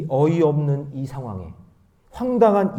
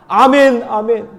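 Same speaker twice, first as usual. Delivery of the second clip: loud, high call of affirmation; ringing preacher's amen; shouted amen; 9 semitones higher, 12 dB louder, much slower than usual. Real, not acted. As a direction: proclaim it at full voice. Calls out amens.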